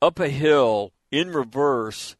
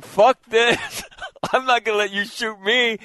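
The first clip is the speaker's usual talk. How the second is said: retold defiant outburst; 7 semitones higher than usual. Retelling his panicked refusal before fleeing.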